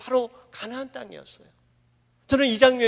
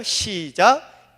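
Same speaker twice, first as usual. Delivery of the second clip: slow cue; 3 semitones lower, much slower than usual. Real, not acted. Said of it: "한번 읽어볼까요?".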